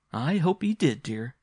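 bitterly amused. A narrator's reading. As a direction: humour the child with a touch of bitterness. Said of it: "but rather bitter".

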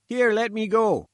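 high-pitched, loud protest; indignant sputter. A narrator's reading. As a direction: sputter while struggling to get free. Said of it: "he sputtered".

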